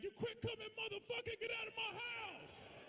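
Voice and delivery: shrill mock scold as an imagined girlfriend; angry girlfriend. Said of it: "could have made me feel bad".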